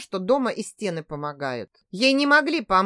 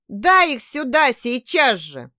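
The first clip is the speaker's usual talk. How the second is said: louder, slow insistence; urgent demand; 3 semitones higher, 5 dB louder, slower than usual. Acted. Husband demanding his wife hand him the babies, urgent demand. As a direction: demand it at once.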